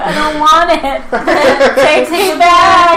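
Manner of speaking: put-on high, loud, childish begging; whiny plea. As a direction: whine to be taken back. After graduating, begging teachers.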